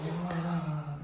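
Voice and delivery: long, drawn-out high "ah"; slow-motion mock cry. Shown as a demonstration. Play fighter showing a slow-motion hit, drawn-out soft cry. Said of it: "if you go super slow motion".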